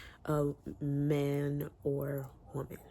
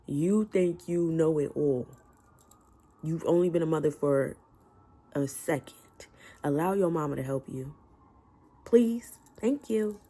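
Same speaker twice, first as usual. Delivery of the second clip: exasperated scolding; 7 dB louder than usual. Acted. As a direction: lecture her loudly like a fed-up aunt, the last word yelled. Scolding the book's young mother.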